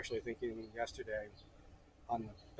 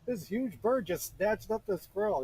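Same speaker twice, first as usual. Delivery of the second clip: high, loud, drawn-out disbelief; acted-out shock with swooping pitch; amazed retelling; 10 semitones higher, 6 dB louder, slower than usual. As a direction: stretch it out in big excited astonishment. Retells own shocked answer to coworker.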